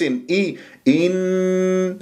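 إن with a precise short i and long nasal n; exact kasra. Shown as a demonstration. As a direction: chant إن slowly, pure i then held hum. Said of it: "جبت كسرة مضبوطة للهمزة". (إن بكسرة مضبوطة وغنة كاملة)

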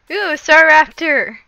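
loud delighted discovery; excited. Real, not acted. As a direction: call it out with glee. Spotting rare Pokemon.

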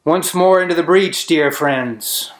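lightly mocking theatrical quotation; mock Shakespeare recital. Older man tossing Shakespeare at a cocky kid, mock recital. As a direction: declaim it as a quote, starting high and dropping away.

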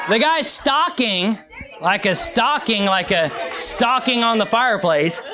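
"stocking" said loud and slow with a laugh, like a Christmas stocking; stocking spelt out loud. Shown as a demonstration. Preacher laughing at the congregation, loud on "stocking". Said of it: "Y'all must not like my accent".

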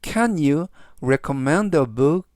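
very slow, rising model question; slow model sentence. Shown as a demonstration. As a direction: read it very slowly, rising at the end. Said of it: "즉, 전체적 의미는".

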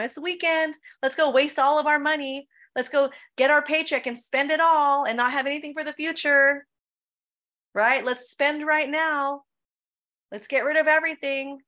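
high, loud, gleeful call to go out and spend; half-acted weekend party cheer; party-girl excitement. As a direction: hype up a night out like your old wild self. Acts out her old partying self.

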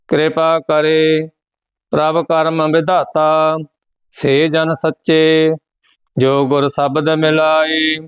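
measured, even chanting of each verse; scripture recitation. Acted. Teacher recites the hymn for students, measured chant. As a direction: recite the hymn steadily, phrase by phrase.

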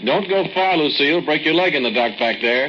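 loud warning shout into the dark; calling out. Acted. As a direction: call after her so she hears from far back. Calling after her into cave.

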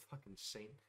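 dry mock praise, dropped low; muttered sarcasm. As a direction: throw it away under your breath. Sarcastic aside.

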